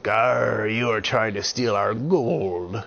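slow, loud pirate accusation. Acted. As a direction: accuse him like a gruff pirate. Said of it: "Peter the pirate said".

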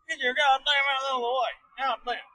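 mock yelling. Driver griping at someone in the way, high mock yell. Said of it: "get these hillbilly teeth out and yell at him".

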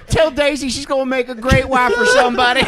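high, loud comic last words; hammed-up high-pitched goodbye; mock dying kid. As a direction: play a child's tearful farewell for laughs.

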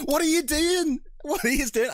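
high-pitched, incredulous outburst; exasperated disbelief. Retold or imitated. Viewer to an actor botching the accent, exasperated disbelief. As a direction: demand it in mock disbelief, pitch shooting up.

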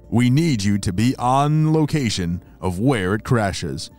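put-on old crank field telephone. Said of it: "walkie-talkie spy beeper".

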